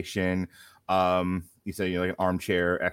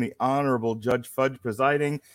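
bailiff; 4 semitones higher, 7 dB louder than usual. Acted. Mock courtroom opening.

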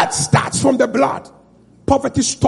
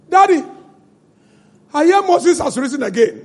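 higher pleading son's voice; 4 semitones higher than usual. Acted. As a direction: voice the boy calling his father. Son voiced talking to Pharaoh.

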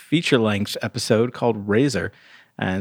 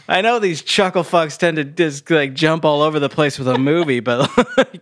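lightly mocked bewildered listener, rising higher; confused listeners; 4 semitones higher than usual. Co-host playing listeners lost in the story, mock confused. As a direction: complain in mock confusion, pitch climbing at the question. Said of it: "that's how you all sound to us".

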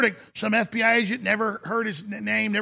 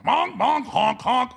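clown honks; 3 semitones higher, slower than usual. Retold or imitated. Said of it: "it's like Clown World".

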